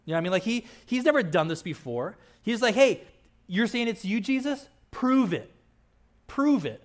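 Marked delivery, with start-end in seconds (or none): 2.7-6.8 higher, louder, cocky demand; insolent challenge. Retold or imitated. Peter in the boat challenging Jesus, insolent and cocky. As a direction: dare him to prove it. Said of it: "Kind of insolent".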